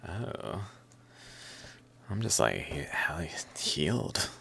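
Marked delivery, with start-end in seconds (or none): 2.6-4.3 whispering. Real, not acted. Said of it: "whispered aside".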